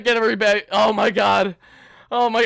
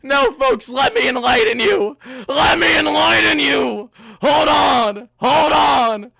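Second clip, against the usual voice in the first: emphatic rebuttal; 3 semitones higher, 6 dB louder, slower than usual. Real, not acted. Rebutting the doubters.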